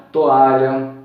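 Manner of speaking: toalha slowly, to and a apart; split syllables. Shown as a demonstration. Teacher slowly splitting toalha. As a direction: break toalha at the vowels. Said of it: "eles se separam".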